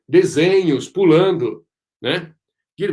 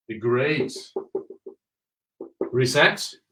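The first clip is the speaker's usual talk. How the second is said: mock conspiratorial; 6 semitones lower, 6 dB quieter than usual. Conspiratorial hush.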